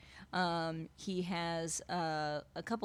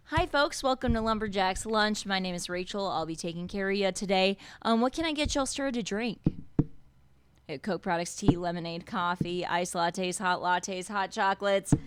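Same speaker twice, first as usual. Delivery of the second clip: sing-song server pitch, pitched up and loud; waitress voice; 5 dB louder than usual. Acted. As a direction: rattle off the drinks like an eager diner server. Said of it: "I set myself up for this".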